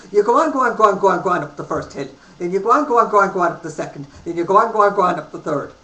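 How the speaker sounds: loud, high, fast-rattled "go on, go on"; Irish accent. Retold or imitated. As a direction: rattle off directions like an excited Irishman. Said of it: "this little Irishman".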